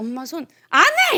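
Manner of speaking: put-on angry child voice. Retelling fighting with mom over pigtails before school, acting out childhood anger. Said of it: "이렇게 해가지고 이제 서로 싸우고".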